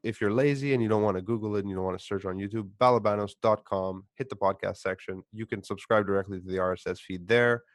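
smooth announcer read; podcast outro. Acted. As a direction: read it like a radio sign-off.

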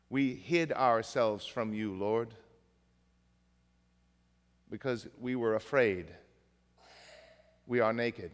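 understated, hesitant answer from hiding; meek confession. Acted. Adam admits hiding from the Lord, meek and halting.

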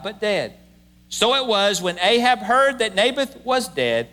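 measured, formal reading of scripture. Acted. Pastor reading the Bible passage to the congregation, solemn reading. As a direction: read the passage steadily to the congregation.

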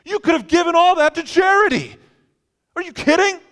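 very high, very loud protest; outraged yelling. Acted. Friend yelling over burned life savings, outraged. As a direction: shriek it in appalled outrage.

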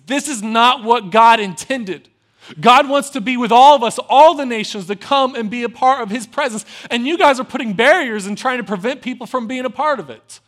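loud, impassioned rebuke; righteous anger. Retold or imitated. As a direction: thunder it at the crowd. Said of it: "And he got angry".

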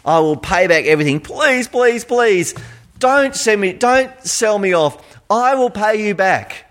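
pleading high and rising on each please; desperate begging. Acted. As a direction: beg for your life before the king. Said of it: "he begged".

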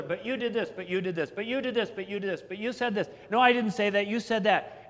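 mock bickering. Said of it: "they start talking over each other".

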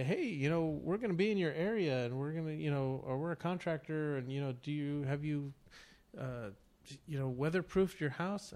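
hammed-up sales pitch; telemarketer voice. Imitating a contractor sales call.

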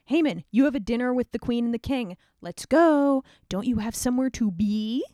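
brisk servants calling out; urgent summons. Acted. Eunuchs hustle Haman off to dinner, loud and brisk. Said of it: "the eunuchs show up and are like".

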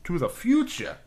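bad actor impersonation with a Boston accent; failed Walken. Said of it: "I'm just a Boston accent".

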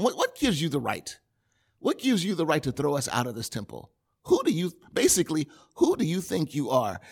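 mock ghetto-style challenge; sassy, head-shaking demand; imitating the crowd with attitude. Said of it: "You can kinda hear the attitude in my voice".

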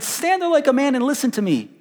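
high, stern order; commanding God. Acted.

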